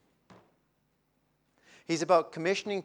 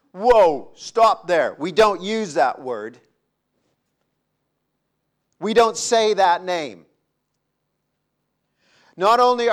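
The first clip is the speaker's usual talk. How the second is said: shocked protest; 3 semitones higher, 7 dB louder than usual. Acted. Gideon shocked by the name.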